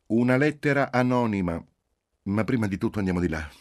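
loud, high indignation; indignant outburst, pitched high. A narrator's reading. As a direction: announce it in outrage, then hurry on. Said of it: "bensì indignata".

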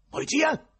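high, loud yell into the telephone; urgent high shout. A narrator's reading. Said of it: "gridò Ivan al telefono".

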